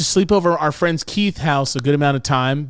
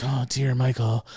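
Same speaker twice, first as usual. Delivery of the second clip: dramatic suspense; 5 dB quieter than usual. Retold or imitated. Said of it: "she's like Alfred Hitchcock".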